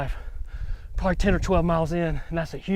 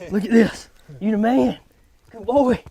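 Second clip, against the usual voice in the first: higher, louder happy praise for the dog; praising the dog; 7 semitones higher, 6 dB louder than usual. Real, not acted. Praising the dog after hunt.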